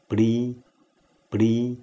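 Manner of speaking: 不离 as pṛ, unvoiced p without a puff; P with dotted R. Shown as a demonstration. Teacher drills P R一点: 不离 as pṛ. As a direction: say 不离 as "pṛ", light r. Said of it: "P R一点".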